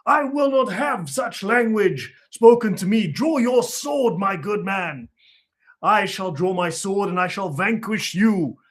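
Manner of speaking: overacted stage-play bravado; mock pirate. Mocking a kids' play, a lightly hammed-up pirate hero. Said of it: "And the pirate goes".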